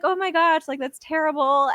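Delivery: put-on lightly high sympathetic girls; mock sympathy. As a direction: coo over her like the bathroom girls. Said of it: "they're just like".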